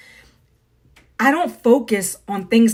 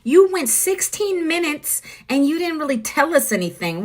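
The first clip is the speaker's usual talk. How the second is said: higher, whiny mimic of a complaining viewer; mock the viewers who complain; lightly voiced griping commenter; mock complainer; 5 semitones higher than usual. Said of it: "a lot of people complain".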